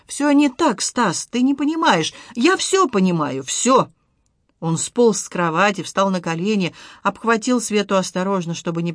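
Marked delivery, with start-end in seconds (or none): 0.1-3.9 higher, pleading protest; distressed protest. Acted. Wife protests to husband, distressed. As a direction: insist he doesn't understand.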